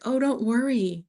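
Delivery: high, airy mock reassurance; breezy brush-off. Imitating the Albanian contact dodging her question, breezy and high. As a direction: toss it off lightly up high. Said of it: "And they're just like".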